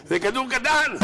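high, lightly voiced whine; defender's excuse. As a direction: say it like it's nothing. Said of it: "הוא אומר".

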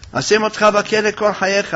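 high-pitched threatening voice; acted threat. Woman threatens Joseph with prison.

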